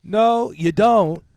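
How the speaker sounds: very loud, drawn-out mock Australian accent; slow, high, badly faked Australian; Jason Ellis. Fighter refusing his opponent, hammed-up Australian accent. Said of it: "He's Australian".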